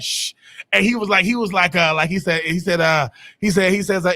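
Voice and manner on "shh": crowd shushing. Retold or imitated. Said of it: "And everybody just like".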